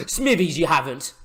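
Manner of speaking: gasping, high and loud disbelief; sudden gasp at a great save; gasp of surprise. Real, not acted. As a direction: react as if the save is impossible. Keeper's save during live match.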